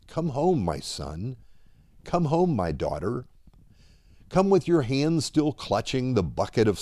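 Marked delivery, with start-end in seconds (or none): 0.1-1.4 tender call. Acted. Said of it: "mouths two simple words". 2.1-3.3 tender call. Acted. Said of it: "mouths two simple words".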